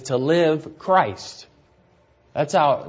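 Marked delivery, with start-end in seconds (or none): 0.0-1.5 "to live Christ" spelled out slowly, word by word; slow deliberate reading. Shown as a demonstration. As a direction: lay out each word so it sinks in. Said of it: "How it's said is".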